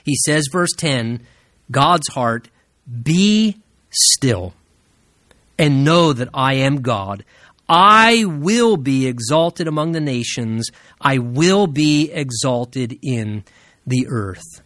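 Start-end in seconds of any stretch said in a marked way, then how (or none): 3.0-14.6 lightly voiced, slow solemn declaration; deliberate, lower delivery with long pauses and drawn-out words; God. God speaking directly to the troubled heart, slow and weighty. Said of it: "That is the very voice of God".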